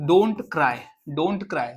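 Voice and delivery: slow, deliberate don't cry; slow model phrase. Shown as a demonstration. Teacher modelling the phrase slowly for students. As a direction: say it slowly for learners. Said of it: "teacher models slow English phrase".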